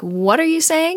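rising, disbelieving mock query; surprised. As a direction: imitate someone who can't believe what they heard. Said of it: "he's just surprised someone would say that".

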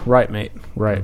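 put-on a rough stab at a British accent that lands near Australian; put-on Australian-sounding accent; dubious British-Australian accent. Host answers where he came from, dubious British-Australian accent. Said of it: "uh, Australian, is it not".

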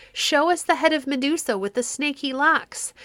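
high, loud and fierce demand; a mob ready to tear him apart; fierce crowd cry. A narrator's reading. The crowd crying fiercely at Perseus, high and loud. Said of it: "a fierceness in their cry".

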